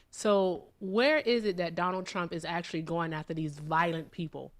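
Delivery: talking around a lollipop; sucking a lollipop. Real, not acted. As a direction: mouth full of candy. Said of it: "I got a lollipop in my mouth".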